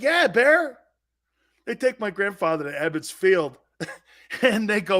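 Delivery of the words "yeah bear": high, loud eager confirmation; imitated insisting. Friend assures grandfather the player is Italian, eager insisting. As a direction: insist to a pal, pitched up.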